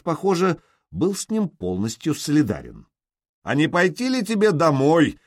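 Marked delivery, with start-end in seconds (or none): 3.4-5.2 higher, louder mocking call; mocking shout. A narrator's reading. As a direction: shout the jibe down at him. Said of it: "крикнул в ответ Торвард". (насмешливо крикнуть)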